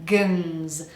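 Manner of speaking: "gens" with a weak schwa, almost no vowel; soft schwa syllable. Shown as a demonstration. Coach models second syllable of vegans, soft schwa. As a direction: let "gens" fall softly into a buzzed z. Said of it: "the second syllable is a soft one".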